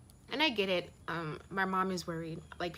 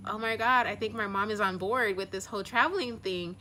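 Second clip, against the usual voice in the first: excited; 3 semitones higher, 4 dB louder than usual. Retold or imitated. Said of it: "I was so excited".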